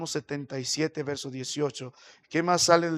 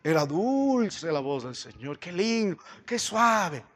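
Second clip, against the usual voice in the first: lightly voiced gushing woman; a hint of dreamy admiration; imitated church lady; 2 semitones higher than usual. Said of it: "una señora me dijo".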